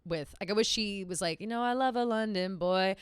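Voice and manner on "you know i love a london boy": mock laughing. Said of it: "Can't even say it with a straight face".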